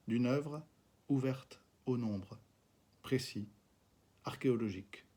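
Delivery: reading his own verse to the camera; poetry reading. Acted. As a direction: let each image hang in the silence. Reads second poem aloud.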